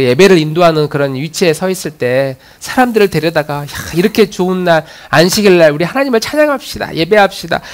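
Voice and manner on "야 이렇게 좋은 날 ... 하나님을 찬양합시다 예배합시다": higher-pitched, happy call to worship; rally the people gladly to praise; joyful invitation. Acted. Worship leader calling people to praise God on the Sabbath, acted joyful invitation. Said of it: "그렇게 기뻐했던 그 시절을".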